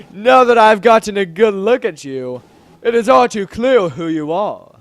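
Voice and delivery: lightly voiced stately king; deep manly voice. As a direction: pronounce it with a touch of regal weight. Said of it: "let's give him a deep, manly voice".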